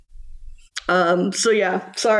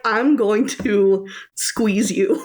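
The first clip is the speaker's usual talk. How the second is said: squeezing affection. Retold or imitated. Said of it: "I'm like".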